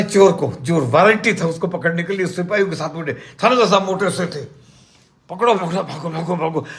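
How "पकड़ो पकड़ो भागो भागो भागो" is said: mock puffing while calling out a chase; acted out of breath. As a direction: run out of breath as you repeat the orders. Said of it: "सांस फूल की".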